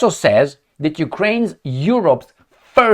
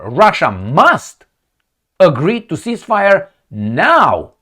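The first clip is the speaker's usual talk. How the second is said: slow, drawn-out mock order with weighted words; imitated bossy demand; slower than usual. Mocking an ambassador ordering Russia to cease fire, bossy imitation. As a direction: mimic someone laying down the law. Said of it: "Who talks like this?".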